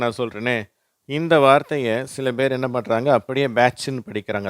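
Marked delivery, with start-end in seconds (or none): 3.5-4.0 பேட்ச்னு with a simple ch sound; ch ending. Shown as a demonstration. Teacher showing how some read the word, ch sound. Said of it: "அந்த இச்சு உச்சரிப்போட".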